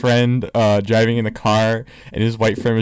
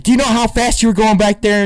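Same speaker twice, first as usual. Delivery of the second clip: higher-pitched retold officer's challenge; comic policeman voice, pitched up; mock cop; 8 semitones higher, 4 dB louder than usual. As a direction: imitate a traffic cop confronting a driver, pitch raised. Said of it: "the officer walks up. He's like".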